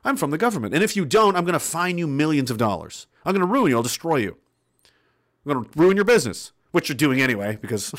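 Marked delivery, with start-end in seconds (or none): 0.0-6.5 Walter Peck. Retold or imitated. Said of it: "Like Walter Peck from Ghostbusters".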